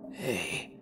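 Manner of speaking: slow eerie whisper from the dark; creepy whisper. Acted. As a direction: breathe it slowly like a lurking stranger. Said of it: "Then I heard a whisper".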